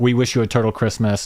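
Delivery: ordinary delivery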